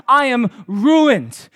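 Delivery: slow, loud despairing wail; anguished cry. Acted. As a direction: drag out the ruin. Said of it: "I cried".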